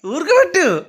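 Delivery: put-on high, slow crying-baby voice; baby voice mimicry. Dad mimics the crying doll for the kids, high and slow. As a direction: whimper it like a little baby calling mummy. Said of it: "పాప voice mimicry చేస్తున్నా".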